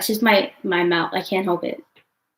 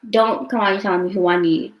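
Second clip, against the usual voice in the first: louder, annoyed warning; irritated telling-off; 5 dB louder than usual. Real, not acted. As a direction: push back, genuinely irritated. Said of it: "that shit irritates me".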